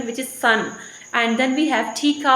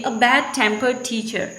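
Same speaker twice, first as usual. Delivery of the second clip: "bad-tempered teacher" with the weight on teacher; stress on TEACHER. Shown as a demonstration. Teacher showing stress shift in a phrase, stress on teacher. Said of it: "stress will move toward the teacher".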